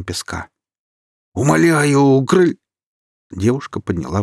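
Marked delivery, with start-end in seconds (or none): 1.3-2.6 high, loud begging cut off; desperate plea. A narrator's reading. Kirill begging as the sand takes him. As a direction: beg until the voice is cut off. Drowning man's last plea.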